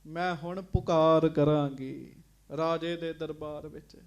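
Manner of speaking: wife vowing to go to the king, loud; defiant threat. Acted. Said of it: "ਅਬ ਮੈਂ ਕਰੂੰ ਪੁਕਾਰ".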